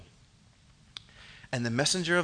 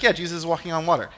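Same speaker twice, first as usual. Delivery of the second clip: quick, offhand, unimpressed delivery; mock over-familiar; faster than usual. Preacher imitating people who've heard it before, offhand. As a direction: toss it off as old news. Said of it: "we've heard it a million times".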